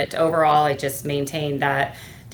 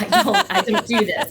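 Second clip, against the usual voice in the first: high, loud, laughing through the words; laughing quote; 7 semitones higher, 7 dB louder than usual. Retold or imitated. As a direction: laugh while quoting the adjuster. Retelling funny adjuster call, laughing.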